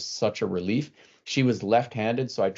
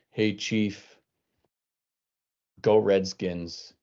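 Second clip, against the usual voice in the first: taunting classmates; much slower than usual. Retold or imitated. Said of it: "fellow students saying".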